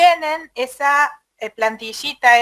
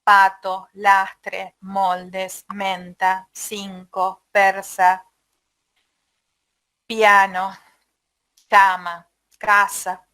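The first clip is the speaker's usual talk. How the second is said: test word list; 4 semitones lower, much slower than usual. Shown as a demonstration. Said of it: "voy a usar los bisilábicos graves".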